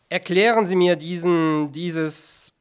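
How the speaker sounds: loud start, then lost for words; angry demand. A narrator's reading. Director demands explanation from the artist, furious and faltering. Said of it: "Ihre Wut, Herr Direktor".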